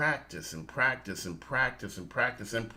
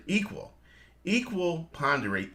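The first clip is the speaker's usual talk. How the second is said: Equal said higher and stressed, then Equal ponderate; 4 semitones higher than usual. Shown as a demonstration. Host correcting his co-host, stressing equal. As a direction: lean on Equal to show where the word comes from. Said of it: "No, not echo, equa".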